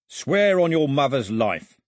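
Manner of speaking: slow, loud, threatening demand; crook demanding an oath. Acted.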